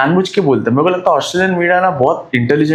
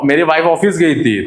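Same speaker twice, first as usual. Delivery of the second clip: normal talking voice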